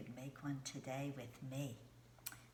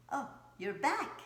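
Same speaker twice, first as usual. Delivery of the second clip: mock surprise; 11 semitones higher, 7 dB louder than usual. Greeting returning kids.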